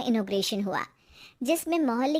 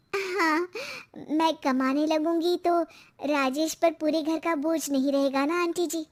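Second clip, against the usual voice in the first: lightly voiced wife, a bit higher; hopeful wife; 5 semitones higher than usual. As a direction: confide hopeful plans to a neighbour, pitch lifted. Wife confides in neighbour.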